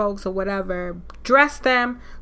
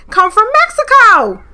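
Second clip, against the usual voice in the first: loud, high insistence on Mexico; Mexico punched loud and high; emphatic exclamation; 8 semitones higher, 6 dB louder than usual. Real, not acted. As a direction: hit it hard: come from Mexico. Insisting root comes from Mexico.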